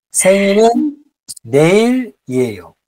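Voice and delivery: レイリエよ drawn out slowly, syllable by syllable; slow modelled Korean. Shown as a demonstration. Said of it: "発音しにくいなって思うときは".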